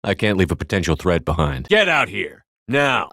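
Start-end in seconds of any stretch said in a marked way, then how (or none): 1.7-3.1 shouted order. Acted. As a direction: bark them out of hiding. Commanding a hidden enemy out.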